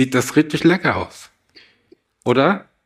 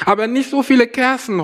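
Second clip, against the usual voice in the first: hooting owl; 9 semitones higher, faster than usual. Acted. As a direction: wail it high like a fretful owl. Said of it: "heulte die Eule".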